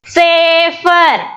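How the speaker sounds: "Safer" drawn out as sa-fer; split into syllables. Shown as a demonstration. Teacher counting two syllables, "Safer" stretched syllable by syllable. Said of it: "two syllables".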